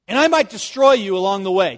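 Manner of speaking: a throwaway threat; offhand afterthought. Acted. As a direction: say "destroy" casually, as if it hardly matters. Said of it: "just as kind of an afterthought".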